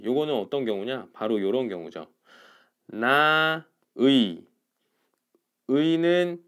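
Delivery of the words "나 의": 나 의 very slow and loud, two separate syllables; drawn-out, emphatic 나 의; standard full 의. Shown as a demonstration. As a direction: stretch 나 ... 의 with a full diphthong. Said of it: "요렇게 그냥 발음하는 게 원칙".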